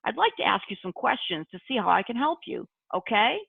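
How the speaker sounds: light friendly question to a caller, rising on okay; gentle permission-asking phone voice; friendly caller demo. Shown as a demonstration. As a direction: ask kindly, like on the phone to a client. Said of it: "So let me demonstrate".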